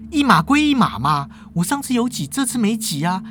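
angry retort. Acted. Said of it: "叶枫就火大啦".

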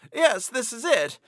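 high, slow "yes, this is it" cried out with joy; excited exclamation. A narrator's reading. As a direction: exclaim "this is it" in delight. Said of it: "exclaimed Kovalov".

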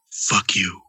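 lightly voiced grumpy dog; low gruff dog voicing. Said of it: "It looks at me like".

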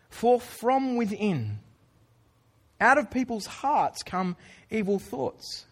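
slow, measured Bible reading; scripture reading. Acted. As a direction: read the verse deliberately, letting each sin land. Reads scripture passage aloud.

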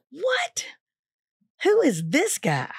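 whispered gasp, then slow disbelief; stunned whisper of disbelief; amazed students. Retold or imitated.

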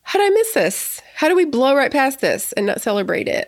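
high-pitched, incredulous self-quote; mock-astonished question starting very high; retold disbelief. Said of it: "I was like".

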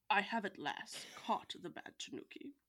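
a hint of a proud farmer, dropping to a hush at the end. Farmer tells his wife about his catch, lightly voiced. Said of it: "Should I do a voice?".

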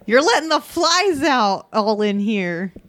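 a hint of a griping dad, drawn out; lightly voiced scolding dad. Player as dad at the open front door, mild drawn-out scolding. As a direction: complain slowly like a dad. Answers dad scenario in character.

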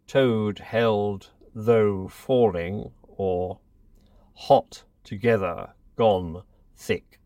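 slow, deliberate word-list reading. Shown as a demonstration. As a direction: read each test word slowly and carefully. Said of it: "read out little lists of words".

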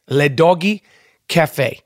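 Le Doggy Cafe said with a mock French accent. Shown as a demonstration. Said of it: "with a French accent".

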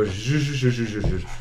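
sweetly. Acted. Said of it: "uncharacteristically sweetly go up to the horse".

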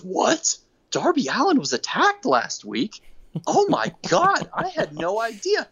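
high, slow feigned shock; mock-innocent MJF. Podcaster mimics MJF feigning surprise about the attack, high and slow. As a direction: fake being shocked, drawn out. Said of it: "And M J F goes".

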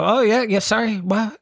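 high, flustered, lightly voiced daze; mock dazed reply. Comic imitating a dazzled passerby, high flustered voice. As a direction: play it up high like someone caught off guard.

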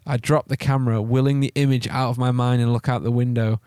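measured, suspenseful horror reading; story narration. A narrator's reading. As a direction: tell the grim discovery steadily, with pauses.

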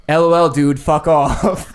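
mocking a buddy's joke text, half laughing; retold laughing brush-off. Friend texting his girlfriend by mistake, loud laughing brush-off. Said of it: "and says".

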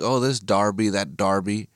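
Derby said as DAR-bee; mock the DAR-bee pronunciation of Derby; Derby with an "ar" in the first syllable; imitated British Derby. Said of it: "they kept saying Derby".

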